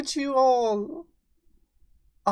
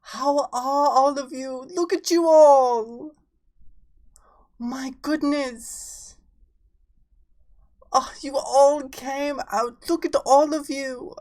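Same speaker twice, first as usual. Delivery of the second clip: breathy vintage purr; 4 semitones higher, 5 dB louder, slower than usual. Acted. Held persona voice greeting viewers.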